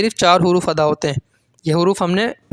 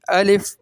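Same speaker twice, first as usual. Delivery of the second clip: "الف" in one short beat; quick model reading of "الف"; one-count length; 2 semitones higher, much slower than usual. Shown as a demonstration. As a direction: say "الف" briefly, with no stretching. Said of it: "اتنی دیر میں الف ادا ہوا".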